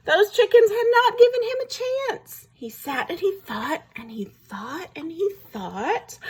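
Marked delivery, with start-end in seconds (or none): 0.1-2.5 high, louder protest on the wolf's behalf; mildly hammed-up indignation, pitched up; indignant. A narrator's reading. Storyteller sides with the rejected wolf, indignant.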